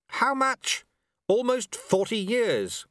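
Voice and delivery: high-pitched urgent exchange; calling out. Acted. Sweeper and apprentice on wound-up time, calling out. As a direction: call across the hall. Shouted exchange across the hall.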